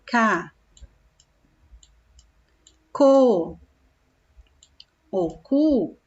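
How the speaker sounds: "co" and "cu" said slowly with a crisp hard K; hard K sound. Shown as a demonstration. Teacher to pupils, showing the hard K sound. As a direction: spell out the sounds "K, co, o cu" one by one for the class. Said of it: "Quando eu quero fazer o som de K".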